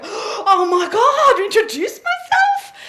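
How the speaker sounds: high, slow, laughing panic; mock panicked presenter. Coach mimicking a nervous presenter, laughing mock panic. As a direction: ham up a flustered speaker caught off guard. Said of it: "they go, introduce you, go".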